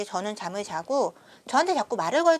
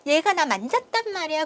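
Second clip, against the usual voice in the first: fake crying; 7 semitones higher, 4 dB louder than usual. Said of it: "막 울면서".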